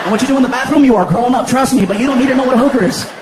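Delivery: loud, insistent lecture; exasperated scolding. Acted. Stepdad shuts down son's question, loud scolding. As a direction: lay down the law at full voice.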